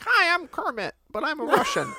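high Muppet voice trying a Russian accent; squeaky frog doing a bad Russian accent; Kermit with Russian accent. Shown as a demonstration. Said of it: "It's better than mine is. I'm like".

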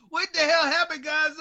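high exclamation of imitated dismay; mock bewilderment. Host imagines Gonzo after the waxing, high mock bewilderment. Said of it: "Be like".

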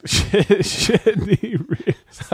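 robot voice. Pretend. Mimicking the robot line.

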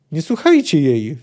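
loud cry to the council; shouting. Acted. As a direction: yell it over the medium. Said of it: "wrzasnęła Filipa".

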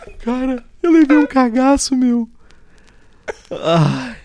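high, squeaky laugh-talk; gasping words between laughs. Real, not acted. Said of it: "E temos o primeiro ataque de riso ao vivo".

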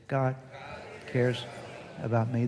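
each word set apart for the congregation to echo; slow spaced call-and-response. Shown as a demonstration. Pastor leading the congregation in a slow spoken affirmation. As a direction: lead the room through it word by word. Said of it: "Say it".

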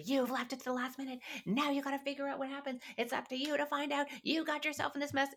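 mock exasperated parent scolding; fearful scolding parent. Shown as a demonstration. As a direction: nag the kid out of your own fear. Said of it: "It can't have that energy, because that's all about fear".

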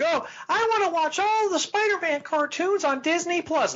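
high mocking whine; whiny fan voice. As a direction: mimic a complaining fan. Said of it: "people are like".

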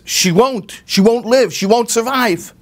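the farmer's wife insisting to the mother, mildly voiced; insistent farmer's wife. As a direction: press her grimly, a hint of an old woman. Farmer's wife insists baby will die.

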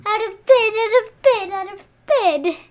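ghostly sister taunt. Retold or imitated. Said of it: "and she's like".

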